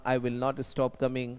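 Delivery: very slow, each word laid out for the class; slow model sentence. Shown as a demonstration. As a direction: dictate it slowly like a teacher. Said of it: "मैं आना बंद नहीं करूंगा". (बहुत धीरे, साफ़-साफ़)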